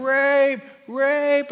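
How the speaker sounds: high, loud mock yell of "Rape". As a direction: shriek it out as the accusing wife. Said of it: "she's yelling".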